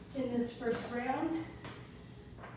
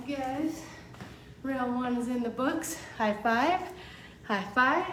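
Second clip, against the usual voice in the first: loud, upbeat fitness cheer; pumped-up cheer; 3 semitones higher, 3 dB louder than usual. Real, not acted. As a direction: hype the class up after a round. Cheering end of round one.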